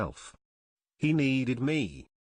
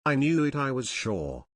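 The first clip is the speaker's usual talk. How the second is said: exulting cry. Acted. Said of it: "exulting and terrible cry".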